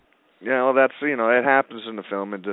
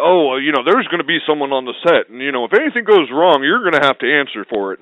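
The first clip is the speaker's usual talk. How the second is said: mock mafia threat; 3 semitones higher, 5 dB louder than usual. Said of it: "he started telling people".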